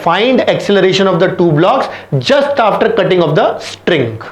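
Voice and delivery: very slow, word by word dictation; reading the question. Shown as a demonstration. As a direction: dictate the question slowly so students can copy. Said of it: "आपका question क्या है".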